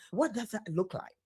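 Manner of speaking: soft unvoiced whisper. Real, not acted. Host asking her guest, in a whisper. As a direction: drop to a whisper for the question. Host asks the next question.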